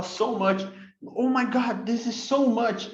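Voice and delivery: "so" stretched long and falling, "this is so much"; emphatic so much. Shown as a demonstration. Teacher to students, stressing so much. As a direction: lean hard on "so" in "so much". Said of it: "quando você quer enfatizar".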